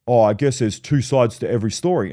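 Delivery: imitating a dim guy backing down; dopey glazed-over voice. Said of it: "his eyes glaze over and he's like".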